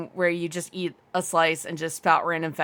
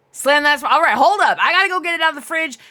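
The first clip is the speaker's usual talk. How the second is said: excited; 7 semitones higher, 6 dB louder, faster than usual. Real, not acted. Hyped about the Sprite challenge.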